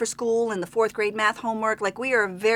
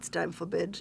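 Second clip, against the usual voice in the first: put-on very soft, low, hushed, thick German accent; 4 semitones lower, 11 dB quieter than usual. Retelling what a man said when he announced bedtime, in a heavy German accent. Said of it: "he had a very heavy German accent".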